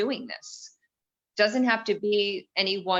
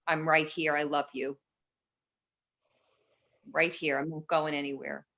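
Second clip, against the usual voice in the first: soft, lower promise to her shadow; tender reassurance; 3 semitones lower, 3 dB quieter than usual. Shown as a demonstration. Reassuring her shadow self, soft and low. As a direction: murmur it like a steady hand on a shoulder. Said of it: "And, and shadow".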